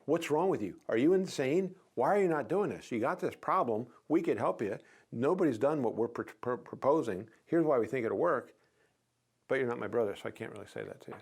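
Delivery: loud exasperated brother rant; blunt brotherly rant. Shown as a demonstration. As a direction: let loose on your brother. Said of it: "I'd go, if you're my brother, I'd say".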